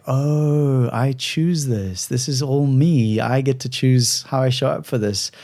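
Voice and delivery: slow, drawn-out "oh" of realising; a touch of relieved discovery, stretched out; dawning realisation. Retold or imitated. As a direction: act out a slow, mild revelation. Acting out her relieved realisation.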